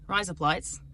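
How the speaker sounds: "Rise up lights" said like "razor blades" in Australian; Australian accent demo on "Rise up lights". Shown as a demonstration. Think you're saying razor blades, "Rise up lights" in an Australian accent. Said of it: "in your mind that you're saying razor blades".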